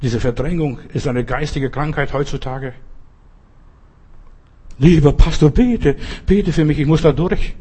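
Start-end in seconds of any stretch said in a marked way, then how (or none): 4.8-7.5 pleading believer. Pretend. Imagined believer pleading with pastor.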